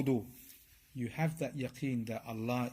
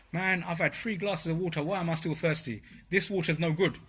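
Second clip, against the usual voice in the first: silly doubting thought; 5 semitones higher than usual. Pretend. Preacher voicing a foolish thirsty man doubting water, mock indignant. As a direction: ham up a drinker doubting the water. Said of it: "You're not gonna think that".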